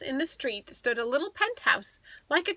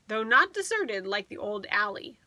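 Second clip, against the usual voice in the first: ordinary delivery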